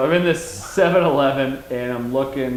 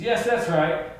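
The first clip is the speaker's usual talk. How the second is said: John Cleese. Retold or imitated. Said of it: "he turns around and says".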